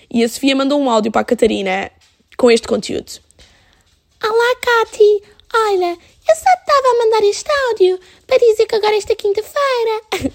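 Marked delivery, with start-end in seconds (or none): 4.2-10.3 much higher, sweet little-sister voice; imitating little sister. Younger sister's voice message to Catarina, imitated high and sweet. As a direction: put on the kid sister's high voice. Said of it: "a minha irmã mais nova fala mesmo assim".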